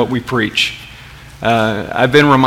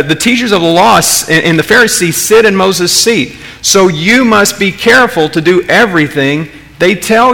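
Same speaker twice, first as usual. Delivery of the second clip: higher, stunned re-reading of the verse; incredulous quoting; 5 semitones higher than usual. Shown as a demonstration. Pastor rereads Jesus' words to the congregation in disbelief. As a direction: read it again as if you can't believe it. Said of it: "I mean, is Jesus serious here?".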